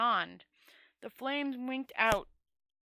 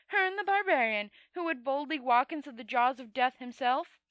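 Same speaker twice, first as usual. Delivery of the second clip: angry; 2 semitones higher, 5 dB louder than usual. Acted. Liza mocking in fury.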